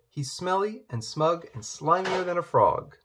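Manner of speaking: mildly furious, acted princess. A narrator's reading. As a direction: list each complaint with rising disgust. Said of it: "Princess Poppy was furious".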